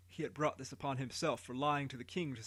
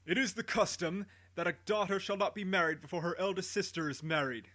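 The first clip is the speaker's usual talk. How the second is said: higher, proclaiming king; booming voice; 4 semitones higher than usual. Acted. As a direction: boom it out to the people. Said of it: "announced in a great booming voice".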